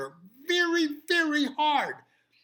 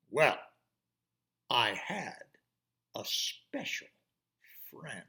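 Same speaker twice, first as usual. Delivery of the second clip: put-on secretive boy; 5 semitones lower than usual.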